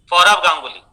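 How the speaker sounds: सौरव said with f for s, as "Faurav"; lisping s as f. Retold or imitated. Speech-impaired boy answering therapist, सौरव with f for s. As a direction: swap the s in सौरव for an f. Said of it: "ये सकार को फकार बोलता है".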